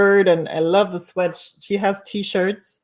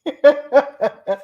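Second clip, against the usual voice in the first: laughing; 8 semitones higher, 6 dB louder than usual. Real, not acted. Laughing at impression.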